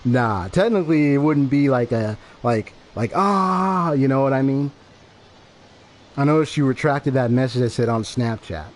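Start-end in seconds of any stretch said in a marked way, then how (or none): 3.1-3.9 high, drawn-out "ah"; a held, higher-pitched mock scream. Shown as a demonstration. Imitates a scream, not at full force.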